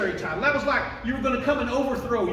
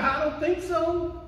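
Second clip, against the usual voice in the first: raised, defiant beggar's voice; not giving up; 5 semitones higher than usual. Acted. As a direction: dig in, pitched high and insistent. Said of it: "He's not giving up".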